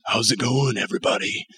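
hushed, croaky radio-cool greeting; husky sick-voice hello, fading out; deep, raspy sick voice. Shown as a demonstration. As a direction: let it drop into a soft, breathy rasp. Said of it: "your voice gets really deep and raspy".

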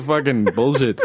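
ordinary talk, nothing marked

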